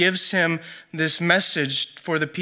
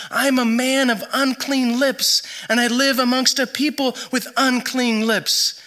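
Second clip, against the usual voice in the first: higher-pitched, restrained cry of confession; crying out to God; 6 semitones higher than usual. Retold or imitated. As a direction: retell a plea to God, pitched up without shouting. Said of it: "begins crying out to God".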